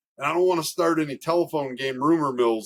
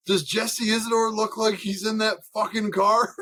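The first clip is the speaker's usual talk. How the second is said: higher-pitched retold challenge; mock indignant; 7 semitones higher than usual. Dad confronts the driving teacher about the list, mock indignant. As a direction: imitate an irate dad's pointed question.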